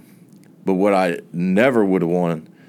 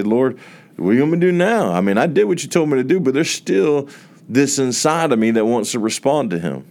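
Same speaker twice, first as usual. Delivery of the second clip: urgent plea; 5 semitones higher than usual. Retold or imitated. Pleading prayer to the Lord.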